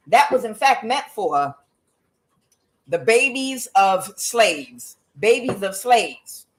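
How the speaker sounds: slow, drawn-out mock presidential delivery; lightly imitated politician stretching the words; Trump. Speaker quoting the president on babies of slaves, mock Trump. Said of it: "trying to do my Trump accent".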